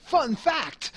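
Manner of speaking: loud, high-pitched sarcastic announcement. Acted. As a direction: punch it out with mock enthusiasm. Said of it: "I'll say it sarcastically".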